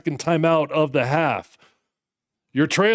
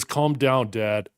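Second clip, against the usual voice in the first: voicing the dog; 4 semitones lower, 3 dB quieter, much slower than usual. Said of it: "Sammy says".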